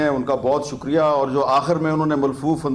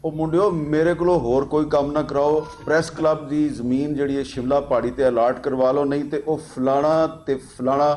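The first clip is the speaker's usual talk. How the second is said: retold Punjabi speech, a touch lower; quoting in Punjabi; 3 semitones lower than usual. Club elder urging friends to get the land allotted, in retold Punjabi. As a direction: quote an elder talking Punjabi to the lads. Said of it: "Punjabi में उन्होंने कहा".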